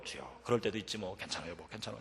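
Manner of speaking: very soft, low forced reassurance; holding temper back. Retold or imitated. Husband reassuring his late wife, suppressing his temper, hushed. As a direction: murmur it low, keeping anger in. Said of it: "혈기를 안 부리려고요".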